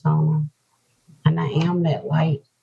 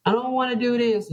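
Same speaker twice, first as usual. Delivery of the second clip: retold reluctance; 8 semitones higher, faster than usual. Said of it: "They explain it".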